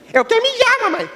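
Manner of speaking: put-on shrill-pitched kid yelling in church; little boy shouting. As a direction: blurt it like a desperate small kid. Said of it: "ele só gritava".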